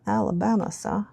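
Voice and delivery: mock Forrest Gump accent, only lightly done; awful Forrest Gump accent. Vlogger doing a quick, bad Forrest Gump impression of a Southern accent. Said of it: "Aw-, awful accent, my apologies".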